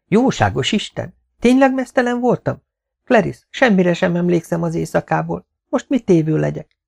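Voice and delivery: high-pitched, aghast mistress; shocked dismay. Acted. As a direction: voice leaps up in alarmed disbelief. Mistress shocked at her own nakedness. (döbbent, magasra szökő hang)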